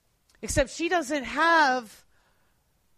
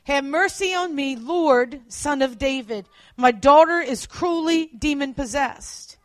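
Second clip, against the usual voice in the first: crying out; 2 semitones higher, 6 dB louder than usual. Retold or imitated.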